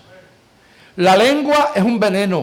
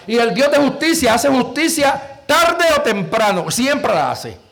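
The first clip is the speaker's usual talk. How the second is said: rising sermon denunciation, building; preaching; 3 semitones higher than usual. Acted. Preacher denouncing church gossips to the congregation, building fervour. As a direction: thunder at the hypocrites in the pews.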